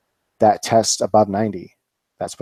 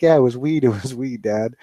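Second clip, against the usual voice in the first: laughing son; 3 semitones higher than usual. Retold or imitated. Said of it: "And his son's laughing".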